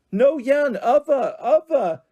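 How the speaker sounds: put-on high, loud little-girl shout; a baby yelling a mangled word; toddler shouting. A narrator's reading. Toddler Holly shouting again.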